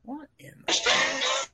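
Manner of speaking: surprised. Real, not acted. Reacts to sudden music.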